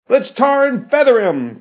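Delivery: high, heated shout; rabble-rousing cry. A narrator's reading. Halflip McCoy incites the mob against the professor, crying out high. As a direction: egg the mob on. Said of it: "cried Halflip McCoy".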